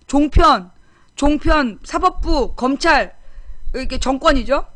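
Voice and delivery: indignant shouted list of opponents; angry listing. Real, not acted. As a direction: count off the foes with rising anger. Angrily lists his enemies.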